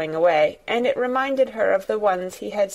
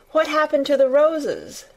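eager; 7 semitones higher than usual. A narrator's reading. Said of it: "more interested than ever".

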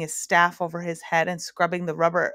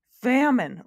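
louder, higher anguished cry; anguished roar; 6 semitones higher, 5 dB louder than usual. Acted. Humbug crying out in hunger to the others, anguished roar. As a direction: wail it out in hungry despair. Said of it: "roared the anguished humbug".

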